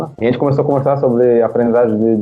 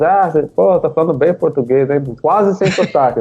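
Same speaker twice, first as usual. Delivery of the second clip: higher-pitched imitation of impressed praise; impressed commenter; 6 semitones higher than usual. Online commenters praising his Portuguese, imitated as impressed. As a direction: mimic surprised praise in a raised pitch.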